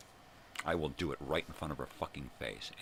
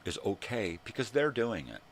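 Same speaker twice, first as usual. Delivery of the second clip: mocking; 7 semitones higher, 6 dB louder than usual. Mocking Karen mentality.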